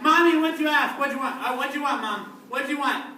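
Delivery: put-on high, loud childlike asking; calling Mom. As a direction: pester Mom from the hall.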